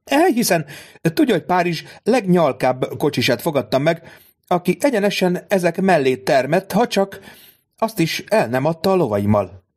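a hint of a scornful noblewoman; haughty baroness. Baroness voiced in story.

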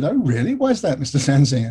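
mock-innocent polite questioning; terribly polite. Biographer drawing out an angry man, terribly polite. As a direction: play the politely puzzled English caller. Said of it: "sort of play the ... terribly polite".

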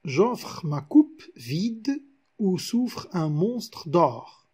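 slow, measured reading of the line; slow verse recital. Shown as a demonstration. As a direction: recite the verse slowly, weighing each word. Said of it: "regardons ce vers".

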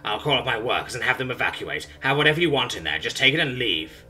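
loud, frantic begging creature; broken creature begging Simone for mercy, panicked; desperate pleading. Acted. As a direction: beg for your life, frantic. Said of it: "it pleads".

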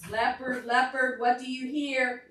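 storybook chant; reading to children. Acted. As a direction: chant the book's refrain for toddlers. Reads picture book to children.

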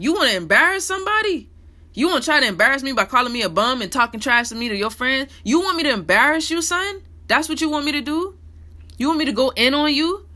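imitating a heated comeback to the girl who called him a bum; mock confrontation. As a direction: call her out, chest puffed. Imagined retort to the girl.

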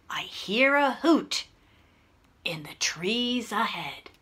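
quiet monster voice in a story; hushed listening. Acted. Gruffalo listens for something ahead.

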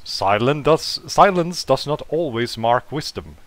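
lightly posh English robot butler; measured aphorism in a mild posh English accent; attempted posh English accent. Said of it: "a posh English accent".

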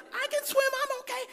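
very high put-on voice; squeaky imitation of a wife calling back; imitated wife. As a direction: protest in a mock high-pitched voice. Wife's reply voiced in story.

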